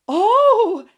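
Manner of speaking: loud, high startled yell; lion yelling when Toto barks. Acted. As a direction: yelp it out in fright. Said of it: "yelled the lion".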